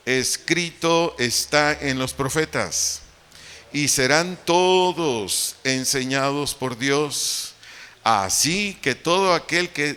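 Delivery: scripture read aloud. Shown as a demonstration. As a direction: read each phrase out slowly for the congregation. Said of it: "leamos en voz alta".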